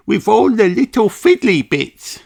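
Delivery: Susie Sheep. Acted. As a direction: answer brightly like a small girl. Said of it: "says Susie".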